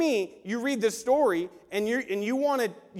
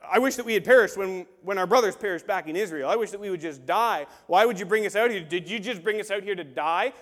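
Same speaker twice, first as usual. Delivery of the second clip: whining complainers; 6 dB louder than usual. Retold or imitated. Complaining Israelites voiced.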